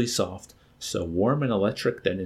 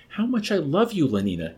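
a desperate rush of love; desperate confession; 8 semitones higher than usual. A narrator's reading. Savage confessing love to Lenina, desperately high. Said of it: "he brought out almost desperately".

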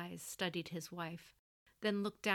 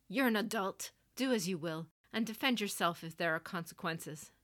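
a mild curt snap, a bit louder; snapped; 4 dB louder than usual. Acted. Stern mother snapping at her adult son, mildly sharp. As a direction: clip it short like a stern general. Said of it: "she snapped".

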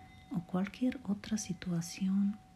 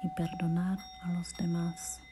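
guided meditation; 3 semitones higher than usual. Acted. Podcaster guiding a listener through relaxation and self-love affirmations, guided meditation voice. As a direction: lead the listener gently through each phrase, unhurried.

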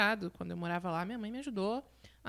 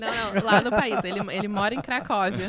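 laughing loudly; 10 dB louder than usual. Real, not acted. Laughing at Polônia joke.

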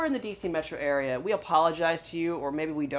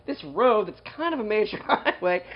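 quoting her with a laugh breaking in; amused repeat, laugh slipping out; laughing quote; 3 semitones higher than usual. Retold or imitated. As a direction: repeat it back, cracking up near the end. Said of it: "Sorry, I'm laughing when you said".

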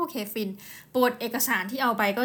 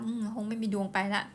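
a touch of put-on sadness, resigned; half-joking sad lament; mock sad voice; 5 dB quieter than usual. Shown as a demonstration. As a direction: sigh it out like all hope is gone. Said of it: "ทำเสียงเศร้า".

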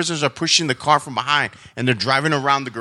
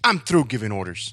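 resigned; 3 semitones lower than usual. Shown as a demonstration. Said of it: "more like resignation".

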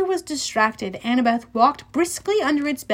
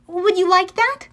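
high, coaxing question; tender offer; 7 semitones higher, 4 dB louder than usual. A narrator's reading. Annabeth offers Cerberus another ball, tenderly. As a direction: coax a sad dog.

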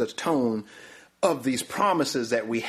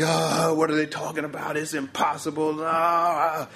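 mock crying; 4 semitones higher than usual. Preacher acts out the despairing people, mock wailing. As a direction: wail it in a mock cry. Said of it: "The people cried all night".

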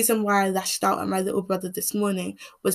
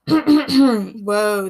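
clears throat, then a startled whoa; real throat clear with a surprised whoa; 7 dB louder than usual. Real, not acted. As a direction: clear the throat hard and react to it. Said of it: "this throat".

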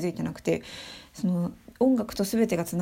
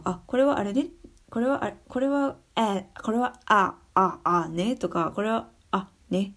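light voice of figuring out vowels; a student piecing it together like a puzzle; imagined inner voice; 2 semitones higher than usual. Retold or imitated. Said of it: "みたいな感じでこう". (パズルのように考える独り言の声)

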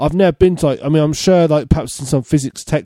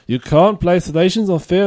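put-on Russian accent sliding into German; badly faked Russian that turns German; botched Russian accent. Trying the quote in Russian, accent slips into German. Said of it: "and that's German".

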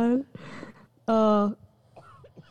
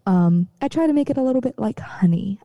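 honeyed podcast voice. Shown as a demonstration. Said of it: "official podcast voice ... like honey".

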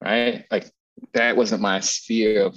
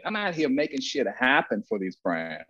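usual speaking voice

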